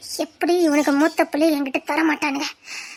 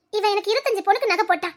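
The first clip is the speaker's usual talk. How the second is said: softer, crying through the words; tearful; 3 semitones higher, 4 dB quieter than usual. Acted. Sister weeping over brother's generous gift, tearful. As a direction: choke up with love for him.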